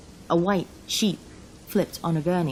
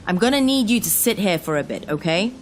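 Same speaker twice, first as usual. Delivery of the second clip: officer giving orders; 4 semitones higher, 4 dB louder than usual. Acted. Officer instructing driver in storm.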